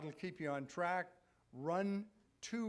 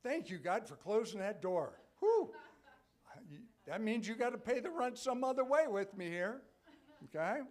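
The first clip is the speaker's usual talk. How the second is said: laughing, higher and louder mock gratitude; wry laughing thanks; 6 semitones higher, 6 dB louder than usual. Believer thanking God for a closed door, laughing wryly. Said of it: "it's hard, isn't it, to say".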